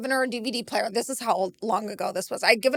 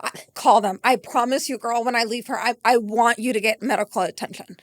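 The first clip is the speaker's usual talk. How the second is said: calm; 5 semitones lower than usual. Retold or imitated. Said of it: "I just sit down calmly".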